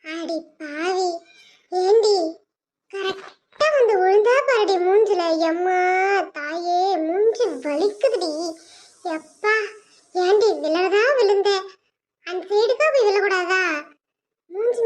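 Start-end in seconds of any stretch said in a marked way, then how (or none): 5.5-9.5 slow, lower, crying whine; hammed-up whimper. Mother moans about her hurt face, slow crying whine. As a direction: moan about the aching face.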